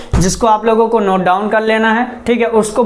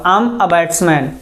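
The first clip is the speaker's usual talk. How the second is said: I am a batsman, drawn out very slowly; slow dictation; 4 semitones lower, much slower than usual. Shown as a demonstration. Teacher models the sentence slowly for the class. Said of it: "तो क्या बोलूँगा?".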